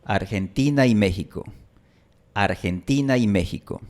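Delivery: Argentina y con diptongo ai enlazado; habla natural enlazada. Shown as a demonstration. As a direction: unir las palabras sin pausa. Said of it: "tú escuchaste esto". (Argentina y México enlazado)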